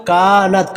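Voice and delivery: कानत with a long kaa; lengthened kaf. Shown as a demonstration. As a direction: recite कानत holding the first vowel. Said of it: "काफ को लंबा करेंगे". (कानत का 'का' लंबा)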